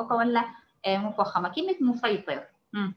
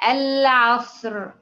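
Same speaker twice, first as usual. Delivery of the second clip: 1 slow demo; 3 semitones higher, 6 dB louder, much slower than usual. Shown as a demonstration. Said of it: "طيب كلمة".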